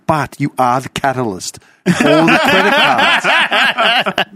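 high, slow, drawn-out accusing; mock accusation. Son blaming the caller for gambling, high mock accusation. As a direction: stretch it out high, pinning the blame.

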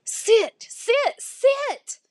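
high, loud, repeated order; high-pitched frantic insistence; upset, desperate command. A narrator's reading. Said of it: "her eyes getting watery".

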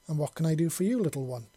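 lightly warm, kind voice; a touch of gentle kindness; warmly. Acted. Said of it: "she asked warmly".

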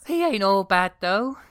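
put-on high, bright young girl voice; chirpy princess voice. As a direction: keep the princess voice going. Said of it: "this is the synopsis of the movie".

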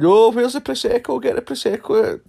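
high loud squealing auntie; mock tipsy auntie. Mocking the aunties shrieking for Prosecco at noon. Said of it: "I mean".

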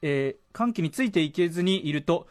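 presenter reading a listener's story aloud; radio letter reading. Acted. Radio host reads a listener's confession about TBS, letter-reading delivery. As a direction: read it out clearly, phrase by phrase.

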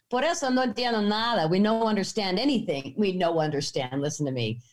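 mock Spanglish, broken English; lightly put-on Spanish-speaker's English; imitated Spanglish. Women fooling the angry farmer, mock Spanglish. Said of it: "like Spanglish".

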